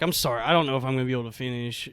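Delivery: mumbled embarrassed apology; quiet apology. Retold or imitated. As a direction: rush an embarrassed sorry quietly. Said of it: "and I'm like".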